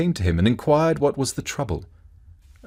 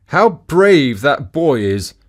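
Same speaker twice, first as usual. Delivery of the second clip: high, loud, slow amazed exclamation; surprised admiration; 5 semitones higher, 7 dB louder, much slower than usual. A narrator's reading. Townspeople amazed as the boy strikes his shield. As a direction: marvel aloud at the boy's courage. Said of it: "said the surprised people".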